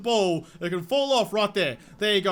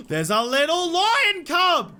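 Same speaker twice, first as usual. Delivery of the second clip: higher, louder, slow delighted cooing; excited cooing; 7 semitones higher, 4 dB louder, slower than usual. Real, not acted. Streamer greeting the newborn lion cub, excited cooing. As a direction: coo over the cub like a proud parent.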